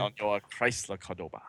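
mock Latin accent; Ricardo Montalban. Host finishes the old car ad, mock Latin accent. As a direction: savor the car's name with a Latin lilt. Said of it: "same type of Latin accent as Ricardo Montalban".

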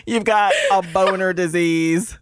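prank caller. Acted. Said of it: "stupid prank phone call name".

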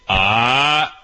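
drawn-out, rising "aah" to correct a dog; corrective "Ah!". Shown as a demonstration. Trainer demonstrates correcting a dog while holding its mouth, firm "Ah!". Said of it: "grab the dog ... mouth and say".

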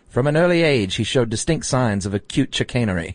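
lightly voiced old newsreel announcer; a hint of a vintage newsreel narrator reading it. Shown as a demonstration. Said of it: "That was just my newsreel voice".

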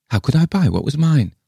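high, querulous retort; indignant old lady. A narrator's reading. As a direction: protest in a high old woman's voice. Le Fane retorts.

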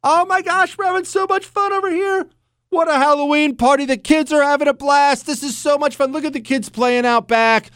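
mock a delighted suburban partygoer; an overexcited guest raving about the party; gushing party guest. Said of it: "this grass is always greener thing that people get".

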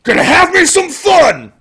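gleeful minigun war cry; Predator quote shout. Acted. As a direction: belt it like the gunner in Predator. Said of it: "my favorite line from Predator just says".

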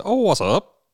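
rough, gravelly with breakfast in mouth. Real, not acted. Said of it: "You did kinda have a gravelly voice".

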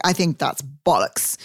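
slow, lightly put-on British accent; a hint of pretend English accent; mock British accent. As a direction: play at sounding British. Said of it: "I'll have an accent".

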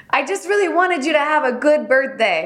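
imitated sweet apology, pitched high; earnest pleading. Host voicing Juliet explaining the birthday party, earnest pleading.

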